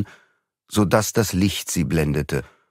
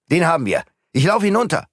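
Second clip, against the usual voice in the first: excited shout; 9 semitones higher, faster than usual. Acted. Servant calls out excitedly.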